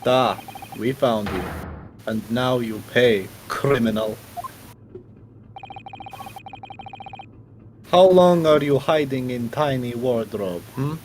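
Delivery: hammed-up fake Russian accent; a bad Russian villain voice, mock menacing; amateur Russian accent, playing a gruff interrogator; shitty Russian accent. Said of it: "try hand at a shitty Russian accent".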